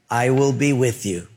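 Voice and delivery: steady answer to a nervous objector; God. Acted. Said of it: "And God said".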